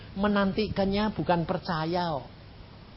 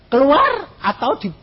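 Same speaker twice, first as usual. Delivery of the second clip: mob shouting; 10 semitones higher, 6 dB louder than usual. Retold or imitated. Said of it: "Ini teriak mereka".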